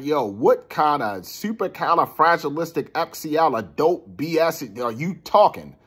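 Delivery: acted-out exasperated question; pissed off. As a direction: challenge the nonsense with some irritation. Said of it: "I was really pissed off".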